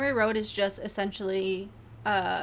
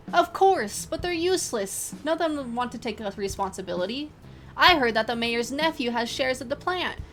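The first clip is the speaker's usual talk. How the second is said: loud, higher angry local; angry resident; 4 semitones higher, 5 dB louder than usual. Acted. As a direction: rant about the poisoned river. Angry resident voiced in interview.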